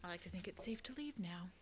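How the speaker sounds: soft unvoiced whisper. Real, not acted. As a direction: whisper it, as if not to be overheard. Sneaking away quietly in game.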